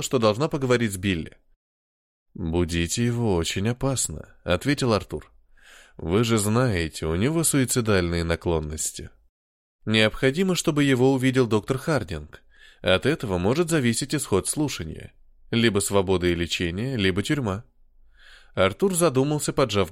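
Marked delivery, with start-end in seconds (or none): 2.3-4.3 put-on lower, slow refined British accent. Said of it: "благородным британским акцентом". 6.0-17.6 put-on British accent. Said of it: "благородным британским акцентом".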